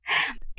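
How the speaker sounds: soft haughty chuckle; a small self-satisfied laugh; smug little laugh. A narrator's reading. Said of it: "ابتسمت وقالت وهي بتقوم بغرور".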